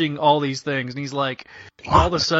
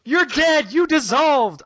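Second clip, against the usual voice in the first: higher, stunned accusation; shocked disbelief; 9 semitones higher, slower than usual. Acted. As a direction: say it like seeing a ghost. Peter voiced in shock.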